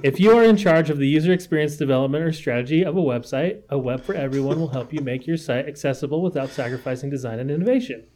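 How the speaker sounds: even, run-on reading without pauses; silent-reader voice. Shown as a demonstration. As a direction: read it straight through, as if to yourself. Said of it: "this is how it sounds in my head when I'm reading it by myself".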